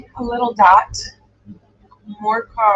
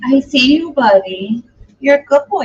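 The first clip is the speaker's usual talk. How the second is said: talking to the dog; 4 semitones higher, 3 dB louder than usual. Real, not acted. Greeting her whining dog.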